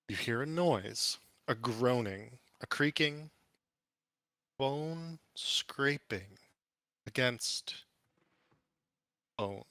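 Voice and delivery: slow, suspenseful scene setting; game master narration. Acted. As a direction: draw out each image with dramatic pauses.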